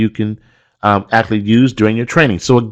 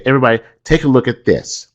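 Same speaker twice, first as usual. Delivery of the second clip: attention-grabbing call; 2 semitones higher, faster than usual. Shown as a demonstration. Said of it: "One technique you can use is say".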